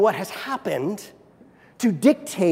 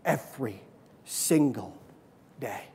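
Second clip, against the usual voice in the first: soft refrain; 6 semitones lower, 7 dB quieter than usual. Acted.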